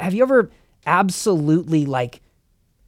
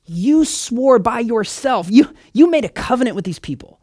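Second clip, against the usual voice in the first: begging Moses; 5 semitones higher than usual. Acted. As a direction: beg God like desperate Moses, pitch raised. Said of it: "Moses goes / I'm begging you".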